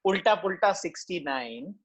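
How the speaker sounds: slow, drawn-out number calling; bingo caller. Retold or imitated. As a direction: call the numbers like a Tambola host. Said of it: "The way they call out these numbers".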